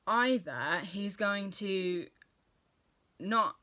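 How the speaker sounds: talking through a mouthful; words round a bite of food; mouth full. Real, not acted. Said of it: "sorry, I had something in my mouth".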